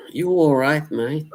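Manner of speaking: high, cheery British greeting; British accent. Pretend. Streamer greeting chat in a British accent. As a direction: sing out a cheery British "all right, mate". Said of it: "I like doing those accents".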